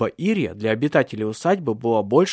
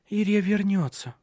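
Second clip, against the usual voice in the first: pleading; 7 semitones higher than usual. A narrator's reading. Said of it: "умоляюще произнесла она".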